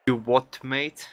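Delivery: a clumsy try at British Cockney; mock British accent. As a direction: play a Londoner badly, loudly. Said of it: "I can't speak English accent at all".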